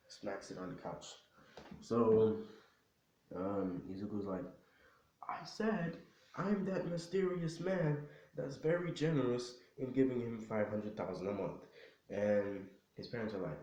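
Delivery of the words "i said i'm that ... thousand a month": exasperated repeat. Acted. Son confessing once more to disbelieving parents, exasperated. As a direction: spell it out, starting high and settling.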